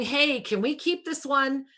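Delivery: acted-out hopeful request; eager plea. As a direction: ask like an eager child wanting to keep someone. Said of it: "The fourth dimension is just going".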